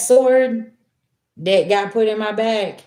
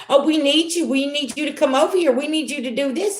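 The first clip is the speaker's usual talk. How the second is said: higher, sing-song mock plea; mock pleading; 6 semitones higher than usual. Family begging the black sheep, mocked in a higher voice. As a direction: parody the family begging for help.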